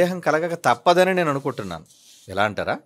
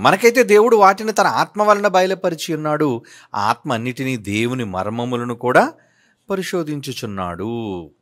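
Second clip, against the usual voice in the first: scripture reading; 3 semitones lower than usual. Acted. Reads scripture verse aloud.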